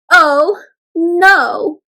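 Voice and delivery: loud storybook "oh no"; dismayed. Acted. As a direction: exclaim in playful alarm. Rereads the exclamation with dismay.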